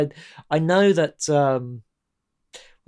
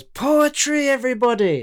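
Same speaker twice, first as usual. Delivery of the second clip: mocking teacher; 11 semitones higher, 6 dB louder than usual. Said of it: "and he goes".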